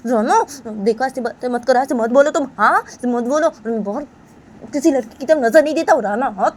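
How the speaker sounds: very high, loud tearful protest; crying denial. Acted. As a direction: sob out the denial, pleading. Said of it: "तो बानी वो ऐसे सब बातें बताने लगती है". (बहुत ऊँची रोती हुई सफ़ाई)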